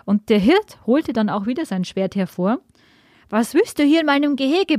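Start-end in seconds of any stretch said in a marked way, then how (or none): 3.3-4.8 high, mock giant bellow; roaring giant. A narrator's reading. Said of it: "brüllte der Riese".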